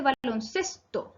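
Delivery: "baloncesto" with weight on "ces"; teacher marking the stressed "ces" of "baloncesto"; stress on penultimate syllable. Shown as a demonstration. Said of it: "el acento está en la penúltima sílaba".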